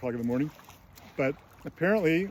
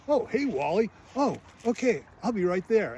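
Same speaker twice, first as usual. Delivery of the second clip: higher-pitched mock phone greeting; acted phone reply; 7 semitones higher, 3 dB louder than usual. Man answering his neighbor's call at the bar, higher acted reply. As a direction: put on a high, eager-to-go phone voice.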